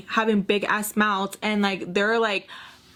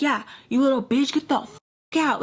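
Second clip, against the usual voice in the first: mock mad; 5 semitones higher than usual. Dad kicking her out of the house, mock mad. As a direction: throw her out, imitating an angry dad. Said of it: "Like, he was so mad".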